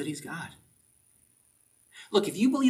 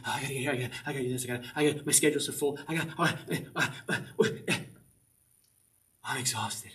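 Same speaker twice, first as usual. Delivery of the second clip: frantic busy person; 5 dB quieter, much faster than usual. Retold or imitated.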